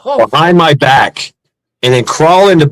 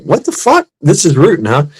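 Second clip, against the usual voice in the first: stunned in the alley; shocked; 2 semitones higher than usual. Retold or imitated. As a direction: yelp it in disbelief. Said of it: "I was like".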